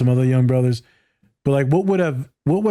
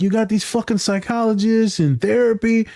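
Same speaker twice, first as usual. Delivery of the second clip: much higher mock quote of a blunt dad; imitating the podcast guy; 9 semitones higher than usual. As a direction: pitch it way up, lightly mocking. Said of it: "He's like".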